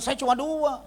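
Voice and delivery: high, loud imitation of a wife; protesting wife. Wife pleading her case to the pastor, high mock protest. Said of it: "Istrinya bilang".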